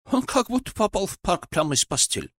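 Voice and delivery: a hint of a calm old genie; genie Nabil voice. Genie character voice.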